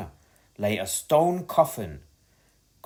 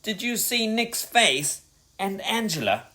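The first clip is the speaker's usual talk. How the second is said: gasping with laughter; 9 semitones higher than usual. A narrator's reading. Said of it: "gasped Eugene".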